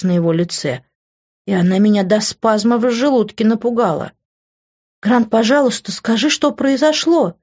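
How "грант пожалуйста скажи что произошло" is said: cracking tearful heartbreak. A narrator's reading. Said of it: "Мой голос дрогнул".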